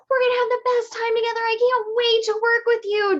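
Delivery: high, loud and fast gushing to a client; over-excited. Retold or imitated. Seller gushing at a sales-call client, hyped and fast. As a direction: gush like you can't contain yourself. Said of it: "If your energy is way excited and you're like".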